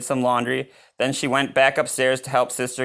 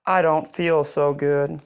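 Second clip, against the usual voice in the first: croaky sick voice; 4 semitones higher, slower than usual. Acted. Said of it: "in a low, vo-, croaky sort of voice".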